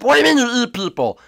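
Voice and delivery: fast, startled shout; alarmed. Real, not acted. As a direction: blurt it out in shock. Alarmed reaction.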